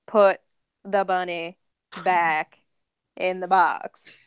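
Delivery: put-on low, slow, mild Southern accent with pauses between words; Southern drawl line. Podcaster quoting the film's tagline, lightly Southern, low and slow. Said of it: "without some sort of Southern dialect".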